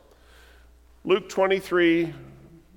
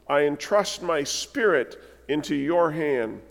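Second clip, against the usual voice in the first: earnest, prayerful reading of the psalm. Acted. Preacher reading Psalm thirty-one to the church, prayerful. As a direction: read it as a heartfelt plea. Which says.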